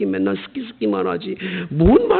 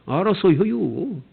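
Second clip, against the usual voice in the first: Chungcheong phrase; 4 dB quieter, slower than usual. Retold or imitated. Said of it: "충청도 사람들은 말이 간단한".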